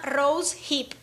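rose hip said as "roush ip", run together; English pronunciation. Shown as a demonstration. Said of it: "No sé si se pronuncia así".

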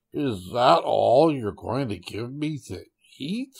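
slow, drawn-out challenge; a touch of menace, taken slowly; stretched-out, lightly indignant question; demanding tiger. Acted.

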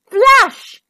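loud, high burst; storybook magic bang; dramatic exclamation. A narrator's reading. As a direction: fire the word off like a spell. A spell goes off in story.

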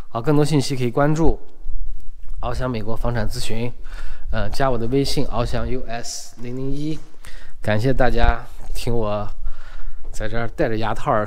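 slightly slurred through a retainer; wearing a retainer. Real, not acted. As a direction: talk around braces in your mouth. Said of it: "戴着牙套儿说不清楚啊". (戴着牙套说话)

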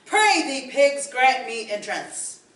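wolf menacingly demands entry again; sinister wolf. Acted. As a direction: draw it out like a predator at the door. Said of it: "The sinister hiss of the wolf".

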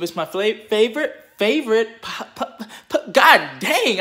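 real stutter, words catching and restarting; tripping over the start of each word. Real, not acted. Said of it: "I'm sounding like I'm popping popcorn".

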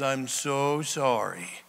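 slow, mock-sorry apology; mock crocodile tears. Someone faking repentance, mock tearful. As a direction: drag it out in fake remorse. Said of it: "has big crocodile tears".

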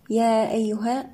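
"يا" held long before "أيها"; lengthened madd. Shown as a demonstration. Tajweed teacher showing madd, "يا" slowly drawn out. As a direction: stretch the long alif in "يا أيها". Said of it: "مد منفصل جائز، يمد أربع أو خمس حركات".

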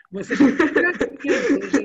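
amused at the students' answers; laughing. Real, not acted. Teacher laughing at creative students. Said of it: "laughing at the class".

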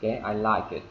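"I like it" linked, with a faint K in "like"; smooth "like it" with a greatly weakened K; reduced K. Shown as a demonstration. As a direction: let the K of "like" almost disappear into "it". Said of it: "giảm âm đi rất là nhiều".

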